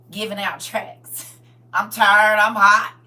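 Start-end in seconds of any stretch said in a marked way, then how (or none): 1.7-2.9 put-on whiny kid. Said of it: "I was like five".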